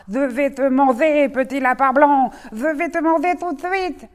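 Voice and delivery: loud menacing threat; shouting wolf. Acted. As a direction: bellow it at the rabbit. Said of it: "Il bondit en criant". (loup qui crie sa menace)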